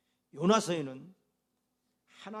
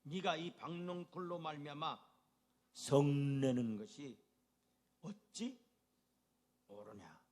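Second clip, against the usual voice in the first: God's question, slowed; 3 semitones lower, slower than usual. Acted. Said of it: "사 장 구 절".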